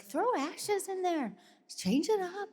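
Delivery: imitating manager. Manager begging to add song.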